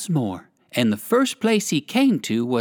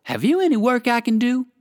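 polite; 8 semitones higher than usual. A narrator's reading. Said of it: "inquired Uncle Wiggily politely".

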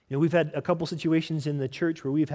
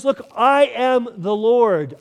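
louder and higher, slow and weighty; booming proclamation; 6 semitones higher, 9 dB louder, much slower than usual. Acted. Preacher booming God's words to the congregation, slow and loud. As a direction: proclaim it like the voice of God, slowly. God declaring, quoted.

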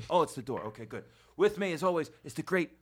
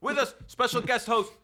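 announcer intro; 4 semitones higher, 4 dB louder than usual. Acted. Introducing a guest host.

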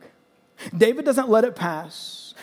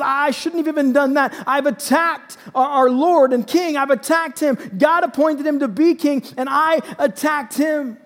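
raised, higher-pitched mild scolding; remorseful rebuke, voice pitched up; reprimand; 5 semitones higher, 4 dB louder than usual. Acted. David rebukes his men over attacking the king, reprimanding. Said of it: "He reprimands his men and says".

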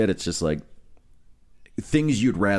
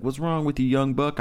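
higher-pitched voice for the dealer; imitated dealer's question; 7 semitones higher than usual. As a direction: ask it high, imitating an older man. Retells dealer questioning his nervous pacing.

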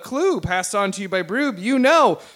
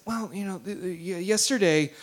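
quiet, stammering start; a touch of nervous reluctance; mildly nervous; 2 semitones lower, 3 dB quieter than usual. Acted. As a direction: hesitate and stumble into the confession. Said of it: "just kind of nervous".

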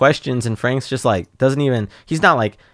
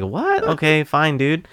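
jumps much higher in surprise; startled then giving in; surprised annoyance; 5 semitones higher, slower than usual. Retold or imitated. Reacting to the agent's request, surprised and high. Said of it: "I'm just like".

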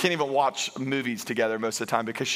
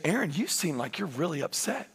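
gentle youth leader; 3 semitones higher, 5 dB quieter than usual. Retold or imitated. Calm youth leader in story.

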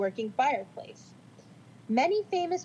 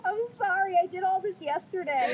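laughing apology; 7 semitones higher than usual. Real, not acted.

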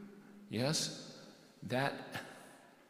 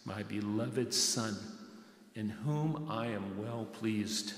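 voice of God. Retold or imitated. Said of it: "here's the voice".

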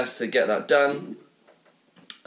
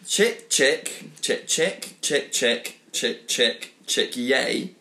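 measured, repetitive chant with each word set apart; mock poetry recital; much slower than usual. Host reading his unfinished egg sonnet to friends, mock recital. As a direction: recite it like a solemn nonsense poem.

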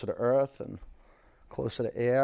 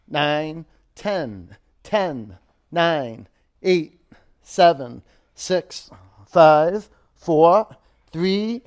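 louder and higher with effort; straining countdown; 4 semitones higher, 8 dB louder, much slower than usual. Real, not acted. Counting down at hardest reps.

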